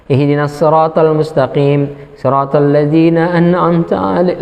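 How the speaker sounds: slow chant breaking toward mock tears; imitated tearful recitation. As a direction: recite slowly, as if tears are taking over. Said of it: "Langsung nangis di situ dia".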